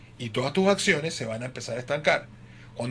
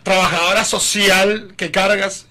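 slow accusing drawl; 2 semitones higher, 6 dB louder, much slower than usual. Retold or imitated. Wife accusing him of perfume.

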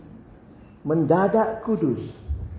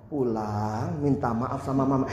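lower, softer patient advice; calm pastor reply; 7 semitones lower, 6 dB quieter, slower than usual. Retold or imitated. Pastor calmly tells the teen to go home and apologize, low and soft. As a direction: say it flat and patient.

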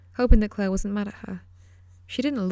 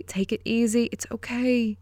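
soothing; 3 semitones higher than usual. Acted. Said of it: "The woman's voice had turned soothing".

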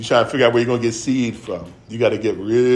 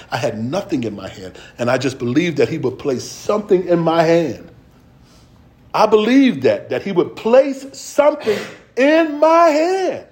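preaching; 3 semitones higher than usual. Acted. Preaches personal testimony.

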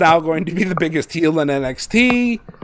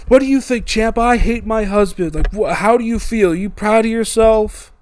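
mock angry scream; 5 semitones higher than usual. Imitating a wife screaming at her husband's rival, mock angry. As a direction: mildly scold in a raised pitch. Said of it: "she just screams at Tommaso".

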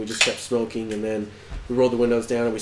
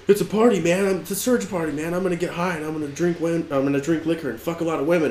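higher-pitched hyped-up party guy; cocky party boast; 4 semitones higher than usual. Retold or imitated. Friend bragging about the party, excited imitation. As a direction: crow about the big night ahead.

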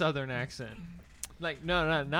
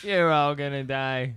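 attempted New England accent; 4 dB louder, slower than usual. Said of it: "I can't do a New England accent".

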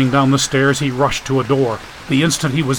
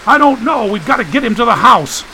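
higher, louder urgent shout; shouting over storm; 9 semitones higher, 3 dB louder than usual. Acted. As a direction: bark orders over the wind. Shouting in hurricane.

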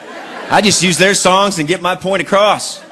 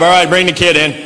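mock scientist; 4 dB louder than usual. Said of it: "See him in the lab".

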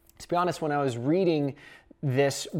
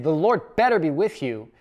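veiled threat. Shown as a demonstration. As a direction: lean on better like a threat. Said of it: "it's a threat".

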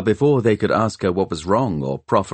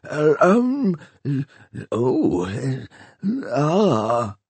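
put-on flustered, higher old man's hesitations, a touch tearful; embarrassed mumble; 6 semitones higher, much slower than usual. A narrator's reading. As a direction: fumble for words, caught off guard. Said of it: "he mumbled, embarrassed".

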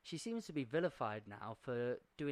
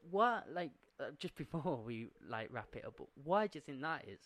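out of breath. Real, not acted. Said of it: "I'm catching my breath here".

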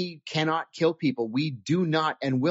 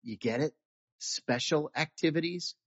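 exasperated; 2 semitones lower, 7 dB quieter than usual. Retold or imitated. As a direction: explain it softly, fed up with the question. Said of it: "kind of exasperated".

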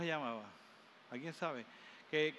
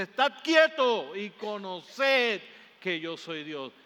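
a hint of a slow, solemn divine voice; voice of God; 2 semitones higher, 8 dB louder, slower than usual. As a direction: speak slowly as God, louder and grave. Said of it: "Y Dios te dice". (Dios hablando, lento y solemne)

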